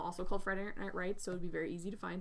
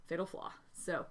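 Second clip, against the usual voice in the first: slightly winded, out of breath. Real, not acted. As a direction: talk while short of breath. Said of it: "I'm out of breath".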